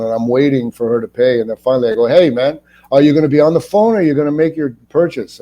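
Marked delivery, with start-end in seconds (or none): 2.1-5.4 acted impatience. Confronting a cashier-line phone user, retold.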